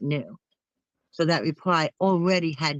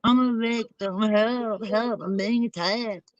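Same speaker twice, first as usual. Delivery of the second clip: mock crying victim; 2 semitones higher than usual. Mimicking her playing the victim, mock crying. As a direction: imitate a whiny cry for help, half-hearted. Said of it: "she does all this stuff and cries".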